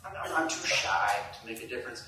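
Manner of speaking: lightly voiced shy doubter. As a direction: voice a timid listener doubting themselves. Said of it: "Maybe you're thinking".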